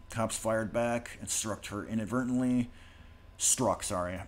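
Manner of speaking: talking around new braces; slightly stiff mouth from braces. Real, not acted. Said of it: "braces in right now. It's kinda hard to talk".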